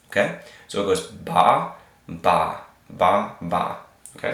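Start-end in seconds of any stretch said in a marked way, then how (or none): 1.1-3.8 "ba" with an open ah; vowel demonstration. Shown as a demonstration. Teacher showing the ah vowels, sounded out. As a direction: repeat "ba" as separate held syllables. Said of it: "These both make a ah sound".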